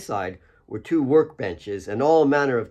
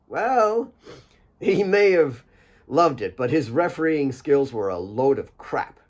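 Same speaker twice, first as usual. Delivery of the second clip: Mary's voice; 3 semitones higher than usual. Acted. Mary's teasing aside about father.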